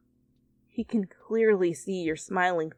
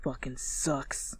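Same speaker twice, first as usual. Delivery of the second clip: grumbled; 5 semitones lower, 9 dB quieter than usual. A narrator's reading. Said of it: "Katsuki grumbled".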